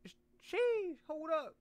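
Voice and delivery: squeaky high hype; hyped up high squeal; high excited sheesh. Real, not acted. Reacts to attractive character.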